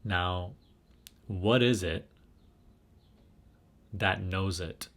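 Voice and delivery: guided meditation. Real, not acted. Leads a guided self-inquiry.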